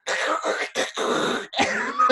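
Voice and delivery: voiceless mouth-made rustle; imitated poncho noise. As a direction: mimic a plastic poncho coming off. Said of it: "she's just like".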